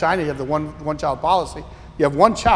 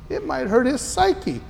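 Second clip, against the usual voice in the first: higher, slow mock worry; mock fretful parent; 7 semitones higher, 3 dB quieter, slower than usual. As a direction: parody an overprotective parent. Quoting overprotective parents.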